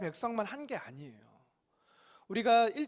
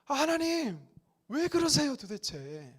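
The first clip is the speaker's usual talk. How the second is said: mock protest; 6 semitones higher, slower than usual. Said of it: "이러고 따지고 있는 거예요".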